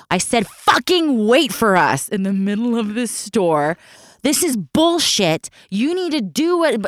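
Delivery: mother chewing out her son in a shop, enraged; angry mom yelling. Retold or imitated. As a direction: scold the boy in a shrill rage.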